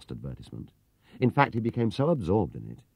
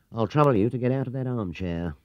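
mildly nasty; 4 semitones higher, 3 dB louder than usual. Acted. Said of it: "he said nastily".

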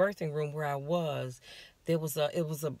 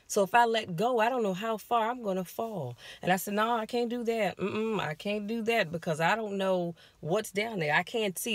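higher, urgent pleading no; cling on and refuse in panic; frightened refusal; 5 semitones higher than usual. Retold or imitated. Woman on the edge refusing Satan, frightened and pitched up.

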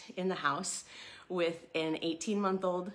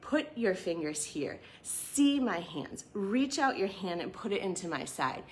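Jesus gently urging Thomas; gentle earnest invitation. Retold or imitated. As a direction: invite him in, tenderly. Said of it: "said, "Listen".

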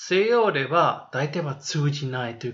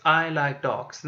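slow model answer; much slower than usual. Shown as a demonstration. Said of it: "で、答え方はね、".

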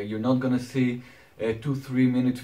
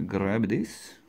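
grab in a Transylvanian accent; Dracula-style Transylvanian accent; 4 dB quieter than usual. Real, not acted. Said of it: "saying the word grab in such a Transylvanian accent".

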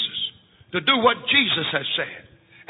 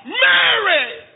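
high, long call across the hills; calling Mary; 12 semitones higher, 5 dB louder than usual. Acted. John coming home calls his wife, a high far call. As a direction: call her name from far off, high and loud. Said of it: "as loudly as he could call".

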